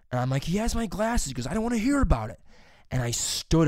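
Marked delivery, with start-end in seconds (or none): 0.4-1.3 high-pitched retold complaint; acted-out indignant tattling; indignant protest. Student complaining to substitute teacher, indignant. 1.5-2.4 high, louder retold teacher's dismissal; acted-out exasperated teacher cutting someone off; dismissive teacher. Teacher refusing to hear student, dismissive. Teacher cuts him off in story.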